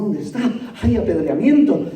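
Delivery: chuckling through the words; laughing mockery. Preacher mocking himself joining the stoning, laughing. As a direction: laugh at your own eagerness. Preacher mocks his eager self.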